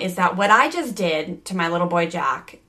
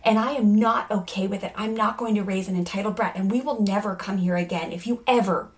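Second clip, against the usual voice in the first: stern lecture. Acted. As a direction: spell out each rule to the misbehaving kid. Mom lectures child in role play.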